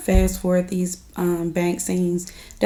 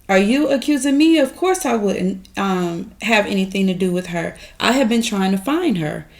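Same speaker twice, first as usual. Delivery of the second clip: offended retort. Retold or imitated. Friend retelling Andy's offended reply to Gary, indignant. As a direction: throw the accusation back, offended. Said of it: "She's offended, like".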